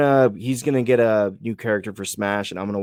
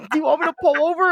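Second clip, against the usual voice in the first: mock high-pitched, quicker wife voice; imitating wife; faster than usual. Husband retells wife offering to stop the car, mock high-pitched. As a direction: do a much higher, hurried wife. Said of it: "she, my wife's like".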